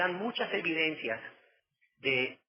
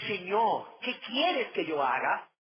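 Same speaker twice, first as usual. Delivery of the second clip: slower, fuller, earnest plea; earnest surrender; 4 semitones higher, slower than usual. Acted. Saul yields to his new master, earnest and slow. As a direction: offer the question as full surrender.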